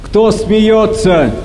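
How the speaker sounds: angry question. Acted. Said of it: "гневно спрашивает Хаггард".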